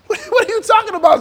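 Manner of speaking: high, incredulous mockery; mock Noah in disbelief; scoffing neighbor. Neighbors mocking Noah's boat, high disbelief. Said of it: "the neighbors are like".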